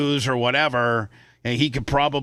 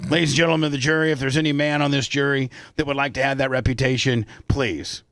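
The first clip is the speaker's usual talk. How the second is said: mock lawyer. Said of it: "your closing statements".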